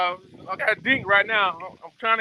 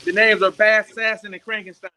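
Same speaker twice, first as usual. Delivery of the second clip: louder, announcing the names over the wind; calling out; 4 semitones higher, 7 dB louder than usual. Real, not acted. Fisherman announces supporters' names to the stream, loud. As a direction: call the names out so the viewers hear.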